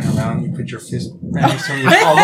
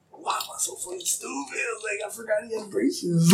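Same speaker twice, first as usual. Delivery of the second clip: retold self-reproach; 9 semitones higher, 7 dB quieter than usual. Retells berating himself after prank.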